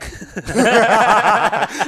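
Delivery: loud, high burst of laughter; big laugh. Real, not acted. Podcaster cracking up at his own cheeky joke, loud high laughter. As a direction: crack up loudly at your own quip.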